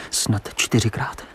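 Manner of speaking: whispered guess. Acted. Christian asks Cyrano how often he wrote, whispered. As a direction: keep it hushed. Secret exchange continues.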